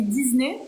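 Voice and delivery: Disney said as "Diz-ney"; Disney with a Z sound. Shown as a demonstration. Host quotes the habit others correct, Disney with a Z. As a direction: put a voiced Z in Disney. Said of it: "Tout le monde me reprend à chaque fois".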